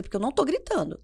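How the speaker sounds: controlled protest at normal volume; composed denial. Retold or imitated. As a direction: say it without shouting, reining yourself in. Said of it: "Aí eu respiro, sento".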